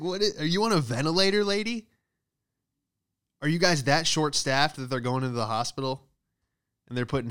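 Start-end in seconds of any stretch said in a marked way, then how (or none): 0.0-1.9 mock outburst. Mocking the breathless phone agent.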